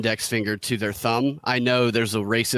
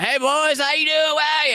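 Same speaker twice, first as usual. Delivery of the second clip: high, hollered Southern redneck greeting; exaggerated Southern good-ol'-boy accent, pitched way up; amped-up redneck accent. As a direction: ham up a redneck Southern twang. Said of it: "I'm talking like".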